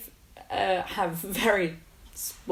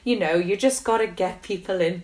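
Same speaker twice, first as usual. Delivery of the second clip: Neil; 4 dB louder than usual. Retold or imitated. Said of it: "That's a really bad Welsh accent".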